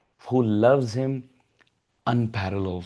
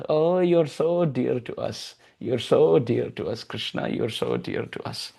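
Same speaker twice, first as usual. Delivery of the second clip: tender cooing. Acted. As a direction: hush lovingly to the child. Parents embrace baby tenderly.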